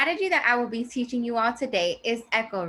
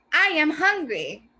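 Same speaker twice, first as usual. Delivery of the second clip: higher, louder, slow exclamation; exclaimed; 6 semitones higher, 5 dB louder, slower than usual. Shown as a demonstration. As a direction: shout it, hungry and eager. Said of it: "That exclamation at the end shows that the person is shouting".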